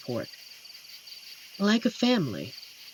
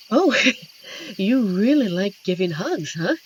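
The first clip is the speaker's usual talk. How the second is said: laughing tease; 5 semitones higher, 7 dB louder than usual. Acted. Being hugged, teasing.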